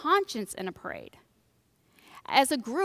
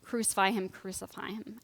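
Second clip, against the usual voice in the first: mock scream; 3 semitones lower, 7 dB quieter than usual. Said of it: "will scream".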